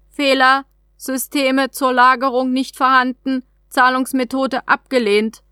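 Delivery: lightly voiced alien vending machine; alien trade capsule. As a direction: read it like a polite automated terminal. Capsule refuses payment.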